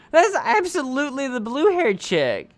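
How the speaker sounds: high, loud excited disbelief; practically shouting it in disbelief. Real, not acted. Realizing the game character's identity.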